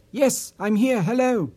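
high, eager phone reply; enthusiastic. A narrator's reading. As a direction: answer with a burst of eagerness. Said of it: "Martin responded enthusiastically".

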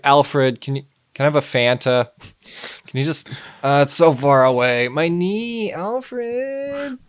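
put-on high, whining old man complaint; whiny Bruce Wayne. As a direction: whine about a sore knee. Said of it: "He's like".

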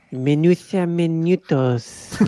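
slow, lisped Castilian Spanish; Spanish accent. Pretend. Co-host asked for a paella-land intro, slow Spanish accent. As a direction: draw it out in a Spain-Spanish accent. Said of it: "Isn't Spanish there over there".

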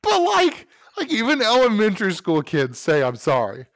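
high, loud comic exasperation; indignant protest. Real, not acted. Defending his grudge to a teasing friend, loudly indignant. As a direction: argue your case loudly, pitch jumping up.

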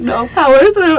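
high, loud mock determination; self pep talk. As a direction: urge yourself on through the pain. Retold self pep talk after snorting.

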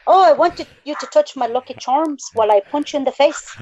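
badly faked Irish accent. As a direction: attempt a jokey Irish accent. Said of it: "I can't do an Irish accent".

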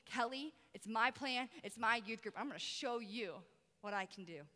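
unhurried promise, voice dropping at the end; quiet assurance. Retold or imitated. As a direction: reassure with calm authority. God's reply voiced in her story.

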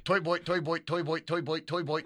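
put-on "toy boat" slipping into an Australian-like "toy boy"; accidental Australian sound. Shown as a demonstration. Host testing the tongue twister, Australian-sounding slip. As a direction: repeat it with an Australian-like vowel. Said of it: "sounds like an Australian guy saying toy boat".

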